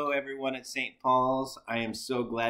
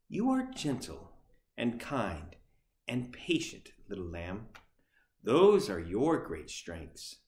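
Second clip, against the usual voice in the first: gentle reassurance. Acted. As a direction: soothe the scared lamb gently. Bear comforts the lamb.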